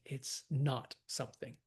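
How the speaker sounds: "not" weighted and set apart; stress on NOT. Shown as a demonstration. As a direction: lean on "not". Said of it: "We wanna stress those too".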